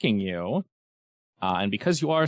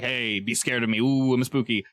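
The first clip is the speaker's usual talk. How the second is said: hissing creature. Acted. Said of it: "it's hissing as if to".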